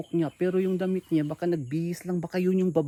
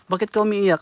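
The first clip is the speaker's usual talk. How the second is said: asking the crying woman again, louder; louder repeat; 6 dB louder than usual. Real, not acted. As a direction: repeat it louder since she didn't answer. Repeats question louder after Ha.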